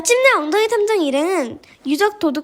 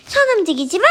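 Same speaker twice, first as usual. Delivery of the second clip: raised, higher acted order; threatening command; 5 semitones higher than usual. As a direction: warn them sharply to freeze. Villain orders captive not to move.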